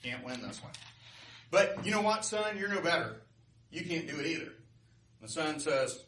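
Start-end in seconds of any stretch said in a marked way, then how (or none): 0.0-0.7 winded, softer giving-up voice; out of breath. Acted. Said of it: "totally out of breath". 1.5-4.5 defiant North Wind. Acted. Beaten wind taunts the sun.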